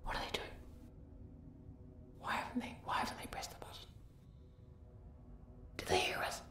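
anxious hushed whisper; worried whisper. Real, not acted. Guide fearing the player heard them, whispering. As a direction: fret under your breath.

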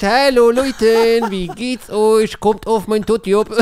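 high, slow comic Moroccan uncle voice; Hamza character voice. Acted. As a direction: ham up a goofy uncle greeting. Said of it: "Die Geschichte von Hamza vielleicht".

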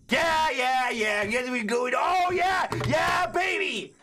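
hype cheer. Real, not acted. Cheering a comeback.

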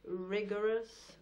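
deliberate, formal verse recital; measured poetry-reading cadence with set pauses; poem reading. Acted. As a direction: recite it as a poem, weighing each phrase. Reads a poem aloud.

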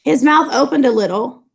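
steady read-aloud of a novel, quotes lightly voiced. A narrator's reading. Teacher reading the Gatsby scene to class, story narration.

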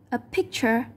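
picture stressed on the first syllable, PIC-ture; unchanged first-syllable stress. Shown as a demonstration. Teacher showing the noun, picture stressed on its first syllable. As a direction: hit the opening of picture. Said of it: "there's not always a chance".

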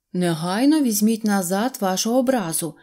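ordinary delivery

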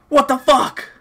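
high-pitched, voiced disbelief; baffled outcry. Real, not acted. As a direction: blurt it out high in real disbelief. Baffled reaction, first take.

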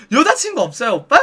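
lightly voiced, inquisitive hostess; chatty hostess. Hostess probing a customer about girlfriends, chatty questioning. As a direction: put it as a lilting question.

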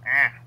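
short mimicked cry; imitated "ah". Teasing a friend about their noise, imitated cry. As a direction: echo someone's odd "ah" back at them. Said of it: "did you just go".

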